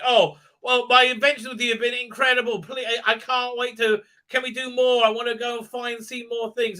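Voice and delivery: high, breathless-paced mock enthusiasm; eager gushing. Acting out Ada's eager pleas.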